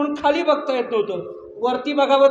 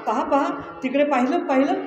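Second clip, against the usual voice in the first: higher, louder eager urging; excited pointing; 4 semitones higher, 4 dB louder than usual. Acted. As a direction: tug his brother's attention, eager.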